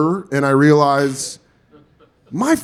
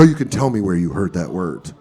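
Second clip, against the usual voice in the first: low, gentle coaxing; empathetic; 8 semitones lower than usual. Retold or imitated. Friend's dad to eight-year-old, empathetic. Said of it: "like, empathetic".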